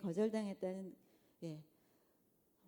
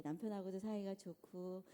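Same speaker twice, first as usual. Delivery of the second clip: ordinary talk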